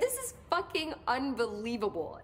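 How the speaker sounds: bursts out laughing, high and amazed; laughing in disbelief. Real, not acted. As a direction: laugh it out, can't believe it. Stunned by Jesse's answer.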